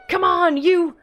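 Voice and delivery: loud urgent orders; rally the helper to aim; commanding shout. Acted. Farmer orders for help.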